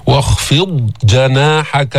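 slow chant of واخفض جناحك; tajweed chant; Quran recitation. Shown as a demonstration. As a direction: recite slowly.

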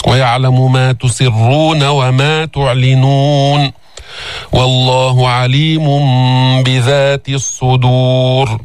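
slow tajweed chant; Quran recitation. Shown as a demonstration. Teacher recites the verse to students, slow chant. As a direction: recite calmly and evenly.

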